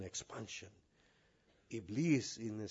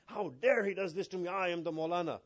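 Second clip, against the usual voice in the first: mildly raised, indignant mock outrage; imitating wounded indignation; acted rage; 5 semitones higher than usual. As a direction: play the affronted, self-important cleric. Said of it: "there's rage inside me".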